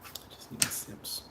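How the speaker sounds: breathy whispered plea; hushed begging whisper. Pretend. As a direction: whisper it like a secret.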